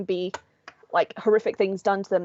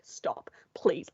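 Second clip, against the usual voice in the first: mortified plea; 3 semitones lower, 6 dB quieter than usual. Retold or imitated. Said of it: "the victim would just be like".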